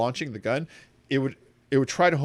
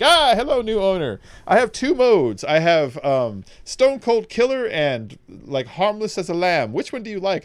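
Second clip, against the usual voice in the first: much higher, eager little gun voice; talking gun Skippy; 7 semitones higher, 5 dB louder than usual. Retold or imitated. Talking gun Skippy greeting his new owner, much higher and eager. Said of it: "He's like".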